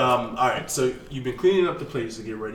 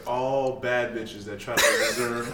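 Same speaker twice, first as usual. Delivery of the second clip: laughing. Real, not acted. Joke told while laughing.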